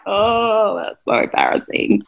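cringing, half-voiced mock groan; mock mortification. Acts own dismay at son's shirt.

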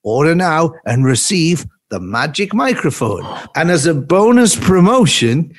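upbeat infomercial pitch; hard sell ad. Acted. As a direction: sell it like a shopping channel host. Spoof sponsor ad read.

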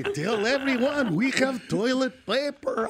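put-on slow, drawn-out deli man accent; lightly voiced Jewish shopkeeper. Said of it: "I just did a Jewish guy".

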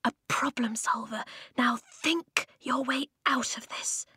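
hushed, insistent pep talk; whispered urging. A narrator's reading. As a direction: urge him on in a whisper. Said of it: "Eska urged Flint".

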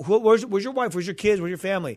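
high, loud run of questions; eager welcome. Retold or imitated. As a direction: ask excitedly after the whole family. Retold eager invitation to whole family.

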